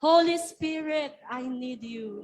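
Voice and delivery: called out. Shown as a demonstration. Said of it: "One, two, three, go".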